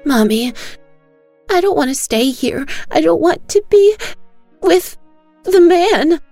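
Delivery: put-on a little girl crying in terror; bawling child. Daughter crying to her mother not to stay, bawling high. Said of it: "Bunny is bawling".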